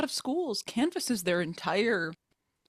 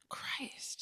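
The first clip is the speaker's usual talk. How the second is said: very soft, whispered exasperation; exasperated whisper; 15 dB quieter than usual. Real, not acted. Guest reacting to peer review failures, exasperated whisper. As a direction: let it out under your breath.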